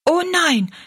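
put-on high, decided girl's no; a quick resolute no; firm refusal. Rosalie firmly refuses food from the kitchen.

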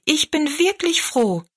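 put-on high, glad young girl; lightly voiced girl, pleased and high; freudige Mädchenstimme. A narrator's reading. Mädchen Rosalie freut sich. (freudige, hohe Mädchenstimme)

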